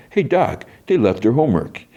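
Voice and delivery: high, sneering soldier voice; hammed-up jeer at the doctor; lightly voiced smug soldier; mock soldier.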